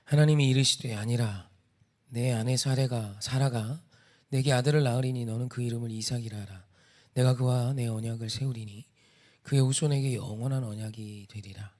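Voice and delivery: measured, projected Bible reading; scripture reading. A narrator's reading. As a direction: read the verse out to a congregation. Reads alternate verse aloud.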